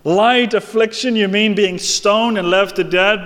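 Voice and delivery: mock outrage at Light affliction; incredulous. Shown as a demonstration. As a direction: throw the word Light back at Paul as absurd. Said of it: "Paul, come on now".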